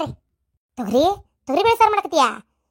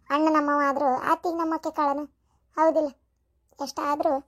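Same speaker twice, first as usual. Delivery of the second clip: softly crying through the words; woman missing her late mother, crying softly; tearful; 2 semitones lower, 4 dB quieter than usual. Acted. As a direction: let the tears break in as she speaks. Grieving for her dead mother.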